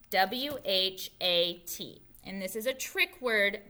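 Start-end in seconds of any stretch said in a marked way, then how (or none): 0.1-2.0 slow letter by letter W, H, A, T; spelling out. Shown as a demonstration. Teacher spelling the word slowly for children. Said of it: "this is the word what".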